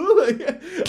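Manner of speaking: laughing hard, high; real laugh after the impression; high burst of laughter. Real, not acted. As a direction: break into laughter.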